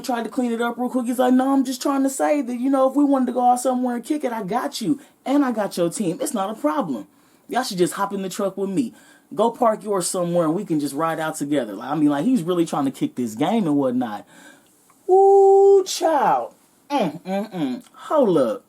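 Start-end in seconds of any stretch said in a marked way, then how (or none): 1.3-11.7 higher, quick smooth-talking guy; smooth-talk your way out of it, a touch higher; backpedaling player. Retold or imitated. Customer backpedaling to girls. 15.1-18.6 shrieked high, loud ooh. Real, not acted. Reaction to the burn.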